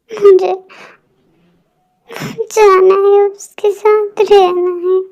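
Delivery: tearful pleading, voice catching; crying plea. Acted. Daughter crying to her mother, begging her to call Jungkook, tearful. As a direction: beg her mother through tears.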